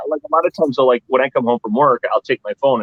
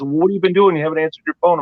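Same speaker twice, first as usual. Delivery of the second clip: higher, nagging voice of a caller; mimicking a nagging caller; 5 semitones higher, faster than usual. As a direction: copy her nagging, pitched up. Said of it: "She goes".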